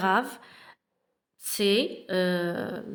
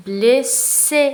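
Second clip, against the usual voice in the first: blessé said louder, the é ending held clear; stressed repeat; 2 semitones higher, 7 dB louder than usual. Shown as a demonstration. Teacher repeats blessé to show the accent aigu. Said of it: "il est blessé".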